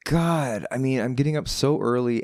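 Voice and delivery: high, put-upon moan; groggy complaint. Retold or imitated. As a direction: complain about the early mornings. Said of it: "I was like".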